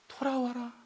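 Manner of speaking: soft, repeated call to return; acted patient entreaty; gentle pleading. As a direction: coax a wayward wife home quietly. God softly calls wayward wife back.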